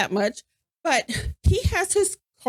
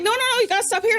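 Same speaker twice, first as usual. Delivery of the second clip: higher mock drunk protest; drunk insistence; 8 semitones higher, faster than usual. Drunk friend telling the driver to stop here, higher mock protest. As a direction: insist like a tipsy friend who knows best. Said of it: "And Jason's like".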